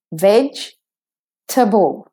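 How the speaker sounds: "Vegetable" slowly as VEJ-tə-bəl; smooth "Vegetable" without the middle e; three-syllable vegetable. Shown as a demonstration. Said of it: "sounds staccato".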